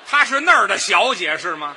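loud, offended outburst; indignant challenge. Acted. Husband confronts partner over slur on his wife, indignant. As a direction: demand an answer at full volume.

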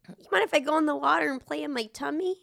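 whiny ex impression. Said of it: "my ex was like".

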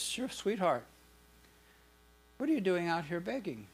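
lightly voiced loving husband; tender husband.

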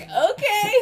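high, drawn-out mock "okay"; retold skeptical okay. Surfer humoring a boastful little boy, mock skeptical okay. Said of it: "And I'm like".

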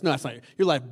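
normal talking voice

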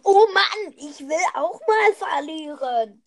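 loud fake whine on Oh Mann; mock whining. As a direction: sulk like a kid. (gespieltes Jammern)

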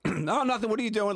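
high, breezy fake friend; mock prank caller. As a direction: play it innocent and chatty. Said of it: "I was like".

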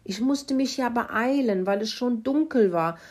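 high-pitched, lightly voiced pig confession; quietly grunting pig. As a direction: make excuses as a sheepish pig. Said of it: "grunzte Kalle leise".

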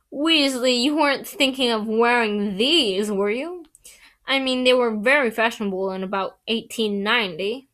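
lightly voiced sneering schoolboy; sneering Malfoy voice. Malfoy mocking Ron's robes.

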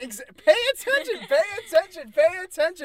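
loud, high repeated yell; shouting. Real, not acted. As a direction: bark it at the distracted friend. Yells repeatedly at co-host.

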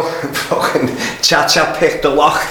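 laughing through the words, slowed right down; can barely get it out for laughing. Real, not acted. Telling his mate the story, laughing as he goes.

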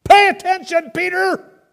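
loud, high commanding call from the cloud; sharp heavenly rebuke; booming divine voice. Acted. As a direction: thunder it down like God's voice. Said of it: "And the voice says".

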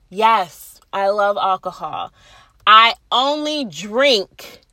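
slow and sensible, cleaned-up version; proper, careful. Shown as a demonstration. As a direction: say it like a responsible adult. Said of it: "that sounds so much better".

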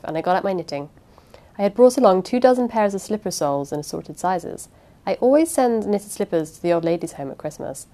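measured audiobook narration; unhurried storytelling read aloud; story narration. A narrator's reading. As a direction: read it as a first-person mystery narrator.

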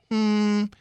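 high-pitched, feigned puzzlement; mock polite doubt. Bosses questioning the hitting coach's job, mock puzzled. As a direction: question his job in a lifted, put-on polite voice.

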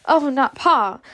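high, alarmed exclamation; terrified cry. A narrator's reading. Scarlet fears her father enlisted, cry of terror. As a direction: cry out in dread. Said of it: "cried Scarlet in terror".

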